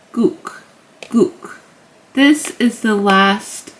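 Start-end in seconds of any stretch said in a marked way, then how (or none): 0.1-1.6 "gook" with long oo and a short K ending; demonstrated syllable. Shown as a demonstration. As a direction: repeat "gook" as separate, cut-short syllables. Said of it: "so, like".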